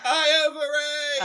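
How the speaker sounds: punchline stretched out slowly, high; slow triumphant repeat. Real, not acted. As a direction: savour the pun, drawing it out.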